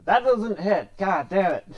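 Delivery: real annoyance at the miss; frustrated shout. Real, not acted. Missed attack, frustrated outburst.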